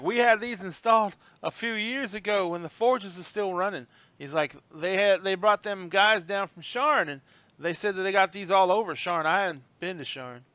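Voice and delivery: a touch of proud excitement; excited old bellhop. Acted. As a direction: show off the lifts, voice lifted. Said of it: "he's, like, very excited".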